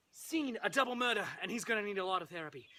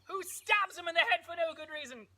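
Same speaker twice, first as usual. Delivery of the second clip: frenzied narration; 8 semitones higher than usual. Acted. Narrates the frenzied final stab.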